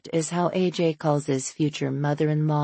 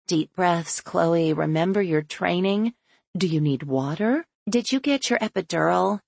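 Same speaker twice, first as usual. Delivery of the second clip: hysterical fussing; 2 semitones higher than usual. Acted. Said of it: "hysterical pigeons".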